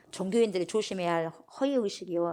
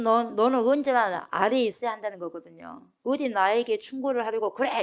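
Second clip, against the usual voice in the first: loud, raised, mock-scolding put-down; 3 semitones higher, 5 dB louder than usual. Pharisees putting the healed man in his place, scolding. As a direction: scold a subordinate who dares to advise you. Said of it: "꾸짖었다는 것은".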